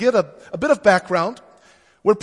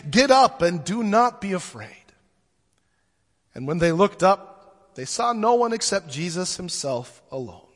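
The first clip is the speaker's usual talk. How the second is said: gospel reading. Acted. Pastor reads gospel aloud.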